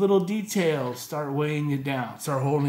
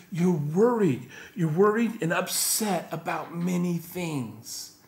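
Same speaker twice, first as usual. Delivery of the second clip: gentle diagnosis; 3 semitones higher, slower than usual. Retold or imitated. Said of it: "He speaks to her heart".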